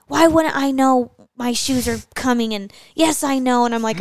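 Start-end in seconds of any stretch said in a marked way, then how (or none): 0.1-2.5 retold snapping. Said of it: "he kinda snapped at me". 2.9-3.7 retold snapping. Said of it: "he kinda snapped at me".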